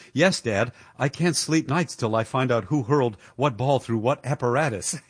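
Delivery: a hint of Niles's dry, bored deadpan. Niles answering his dad about sports radio, lightly mimicked deadpan. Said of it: "Niles, in his usual deadpan".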